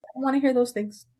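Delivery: imitating mom. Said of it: "She's like".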